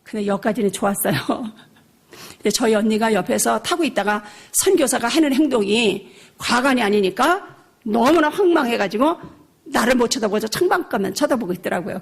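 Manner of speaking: ordinary delivery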